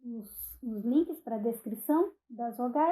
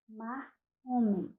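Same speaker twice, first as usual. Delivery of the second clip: slow example words; slower than usual. Shown as a demonstration. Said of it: "a consoante no final".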